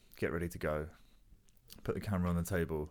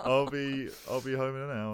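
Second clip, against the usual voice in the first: sheepish reassurance; 6 semitones higher, 4 dB louder than usual. Retold or imitated. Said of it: "I was like".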